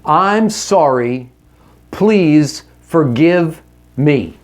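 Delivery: slow, deliberate sincere apology; slow earnest apology to your wife. Shown as a demonstration. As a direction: lay out each word slowly and earnestly. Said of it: "Here's how you start".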